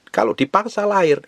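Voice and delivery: ordinary talk, nothing marked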